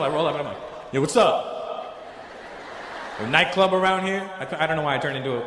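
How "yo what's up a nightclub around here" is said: imitated Black American gangster talk; Black American accent. Comic trying to be cool with bouncer, Black American accent. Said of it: "a black American guy".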